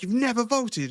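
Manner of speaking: high, disbelieving question; incredulous. Retold or imitated. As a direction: imitate a stunned coworker. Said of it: "And I was like".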